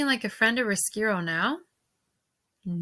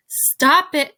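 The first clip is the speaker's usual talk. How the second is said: sharp raised order, high and loud; shout; 6 semitones higher, 7 dB louder than usual. A narrator's reading. Riskiro orders Mig and the princess to stop, shouting. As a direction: shout them down. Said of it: "shouted Riskiro".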